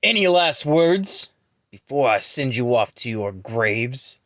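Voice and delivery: loud, slow menace; villain's threat. Acted. Villain threatens beaten foes.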